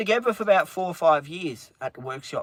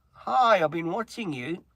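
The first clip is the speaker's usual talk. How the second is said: flirty greeting, retold; 3 semitones higher than usual. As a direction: retell her hello with a lifted "Hi". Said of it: "Fiona said to me".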